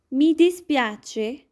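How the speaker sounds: "Mi dispiace" slowly, mee dee-SPYAH-cheh; slow Italian demo. Shown as a demonstration. Teacher modelling sorry phrase, slow careful. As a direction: draw out "Mi dispiace" syllable by syllable. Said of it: "Next is per favore".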